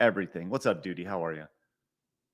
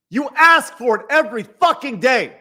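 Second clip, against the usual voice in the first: higher, louder angry blast; angry outburst; 9 semitones higher, 8 dB louder than usual. Real, not acted. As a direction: let it burst out in real anger. Angry rant at rival streamer.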